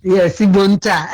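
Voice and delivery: delighted shouted yes, laughing with relief; excited. Real, not acted. Caller thrilled the host lets him use his dialect, excited shout. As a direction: burst out with joy at being allowed.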